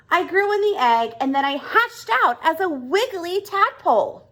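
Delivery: frog patiently explaining, lightly voiced. Frog tells Oscar how he grew, lightly voiced frog.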